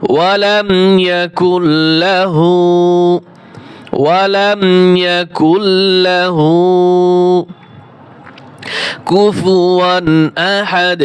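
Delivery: slow, drawn-out tajweed recitation; Quran recitation. Shown as a demonstration. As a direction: chant each word long and even, like tilawat. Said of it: "teacher demonstrates recitation".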